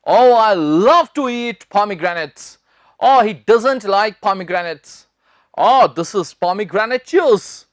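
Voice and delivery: drawn-out acted examples; slow example lines. Shown as a demonstration. Teacher slowly modelling example sentences. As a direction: speak each example slowly. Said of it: "example sentences".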